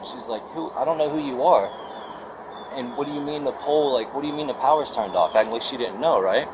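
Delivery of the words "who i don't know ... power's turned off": mock clueless questioning; playing dumb. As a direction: imitate someone feigning ignorance, higher pitched. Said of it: "trying to play stupid".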